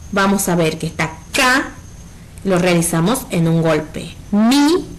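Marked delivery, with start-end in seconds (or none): 1.3-1.7 "K" said as the lone syllable "ka". Shown as a demonstration. Teacher splitting camisa into voice beats, syllable by syllable. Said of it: "según los golpes de voz". 4.3-4.9 "mi" as one separate, higher beat; syllable by syllable. Shown as a demonstration. Teacher splitting camisa into voice beats, "mi" isolated and raised. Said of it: "en otro golpe de voz".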